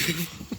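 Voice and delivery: quiet breaking-up laugh; stifled laugh. Real, not acted. Storyteller cracking up at the slam, stifled laugh. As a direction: let a small laugh slip out softly.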